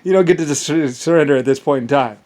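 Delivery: loud, laughing mock apology; laughing, condescending refusal; gloating laugh. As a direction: taunt them while chuckling. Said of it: "It's like".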